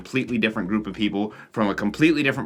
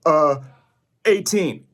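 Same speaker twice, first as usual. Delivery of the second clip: put-on hesitant teen lying; 5 semitones higher, 5 dB louder, slower than usual. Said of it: "you're all like".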